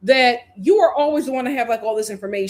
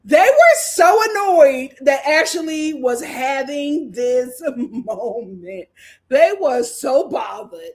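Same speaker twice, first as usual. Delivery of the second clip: laughing through words; 2 semitones higher, 5 dB louder, slower than usual. Real, not acted. Laughing while recapping scene.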